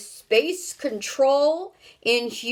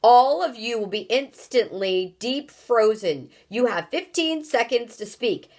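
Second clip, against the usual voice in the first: loud, raised threatening countdown; booming ultimatum; 3 semitones higher, 4 dB louder than usual. Acted. Houston threatens the strangers with freezing, booming ultimatum. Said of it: "boomed the voice".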